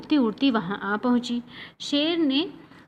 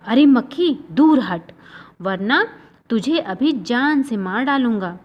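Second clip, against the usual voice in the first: louder roar at the fly; roaring lion; 4 dB louder than usual. Acted. Lion roars at the buzzing fly, loud threat. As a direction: roar the threat like an angry king. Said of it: "वह दहाड़ा".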